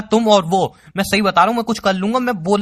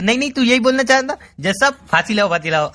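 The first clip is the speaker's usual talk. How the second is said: mocking imitation; 4 semitones higher than usual. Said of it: "बोल दिया".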